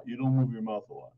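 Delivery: quick Philadelphia accent through a barely moving mouth; mumbled Philadelphia demo, mouth hardly moving. Shown as a demonstration. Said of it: "like that".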